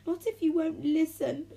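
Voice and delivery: high, loud defiant refusal; grunted retort. A narrator's reading. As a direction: throw it back loudly. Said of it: "grunted Diesel".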